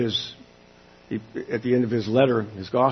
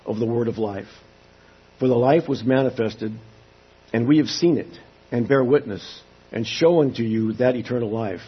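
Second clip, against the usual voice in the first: formal, measured Bible reading; scripture reading. Acted. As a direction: read the King James text with gravity. Reads scripture aloud to congregation.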